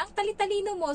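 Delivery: employer amazed at the maid, high gushing tone; gushing praise. Retold or imitated.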